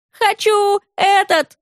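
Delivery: put-on high, slow child's whine; boy insisting on the diary; whiny boy demanding. A narrator's reading. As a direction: drag it out like a spoiled boy.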